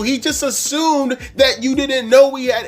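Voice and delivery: high, loud heated retort; exasperated yelling. Retold or imitated. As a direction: re-enact shouting sense into someone, exasperated. Retold argument with the customer.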